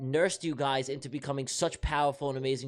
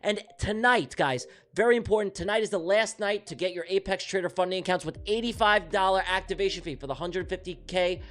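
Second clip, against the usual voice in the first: sponsorship voice; 2 semitones higher than usual. Shown as a demonstration. Streamer reads sponsors to viewers before the charts, in a sponsorship voice. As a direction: pitch it like a hyped-up announcer. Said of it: "Let me put my sponsorship voice on".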